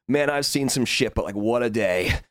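voice of the bucket. Pretend. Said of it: "taking it from the perspective of the bucket".

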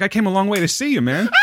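high, protesting mock shout; indignant friend. Visiting Australian protesting to his host, indignant. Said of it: "He's like".

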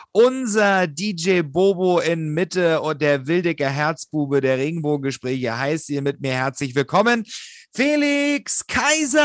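boxing ring announcer. Acted. Introducing co-host like a show.

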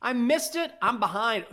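high, loud disbelief; shocked dismay. Real, not acted. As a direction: cry out that you missed it. Missed the live groundhog call.

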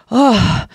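spent sigh. Retold or imitated. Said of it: "afterwards you're kinda like".

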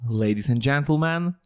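put-on lightly American-accented announcer opening; a hint of an American accent. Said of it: "Powiedz to z amerykańskim akcentem".

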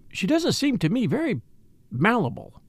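pausing before the word; hesitant. Acted. Lady Tamplin judging Catherine, hesitating over a word. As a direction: search for the right word. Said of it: "hesitating to choose the right word".

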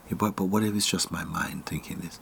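hushed, uncertain whisper; whispered doubt. Retold or imitated. The doubting mind questioning itself, whispered. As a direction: whisper the worry to yourself.

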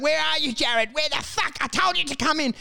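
hammed-up father yelling down the street; mock angry father yell. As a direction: call him in like an angry dad. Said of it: "he yelled this once".

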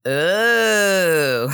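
high, loud alien ooh; a little alien marvelling at the claw; gurgling alien voice. Acted. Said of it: "a clean read from you of you doing the claw in the alien voice".

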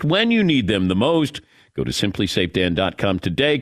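smooth, scripted radio ad read; host reading an ad; sponsor read. Acted. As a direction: read the sponsor copy briskly and evenly.

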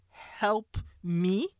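a touch of offended pushback, not full anger; indignant eye-roll. Retold or imitated. Wife retorting to her husband's offer, mildly indignant. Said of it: "I would have rolled my eyes and said".

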